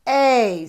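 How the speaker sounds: "A" with the mouth open really wide. Shown as a demonstration. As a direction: open wide and push out a strong "A". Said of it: "watch my mouth 'cause I open it".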